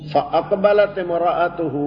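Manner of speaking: slow measured recitation of the verse; Quran recitation. Shown as a demonstration. Teacher reciting the verse to his students, slow measured recitation. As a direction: draw the Arabic out, reciting.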